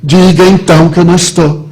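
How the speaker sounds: loud, high, exasperated retort; irritated outburst. Retold or imitated. Irritated man tells porter to say he's out, loud exasperation. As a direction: snap the order loudly, patience gone. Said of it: "Eu aí me irritei".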